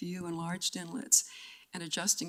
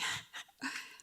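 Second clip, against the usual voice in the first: embarrassed laugh; 7 dB quieter than usual. Real, not acted. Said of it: "I do not like crying".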